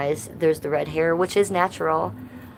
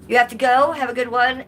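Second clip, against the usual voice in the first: higher, louder send-off; loud goodbye; 6 semitones higher, 6 dB louder than usual. Real, not acted. Streamer calling goodbye to a viewer who is leaving. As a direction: call out a cheery farewell.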